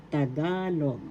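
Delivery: Tagalog with the "ga" stretched; stress on second syllable. Shown as a demonstration. Teacher repeating Tagalog after naming the accent, stress on second syllable. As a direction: lean on the middle syllable of "Tagalog". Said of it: "Second syllable is the accent".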